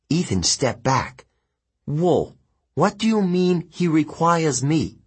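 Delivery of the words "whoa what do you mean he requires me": higher, taken-aback voice; alarmed young demigod. Acted. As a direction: balk at being volunteered. Ethan objects to the demons.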